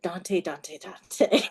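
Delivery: imitating a Jamaican accent; heavy Jamaican accent. Imitating a fan's Instagram recordings, heavy Jamaican accent. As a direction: say the name over in a Jamaican accent. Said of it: "in that heavy Jamaican accent".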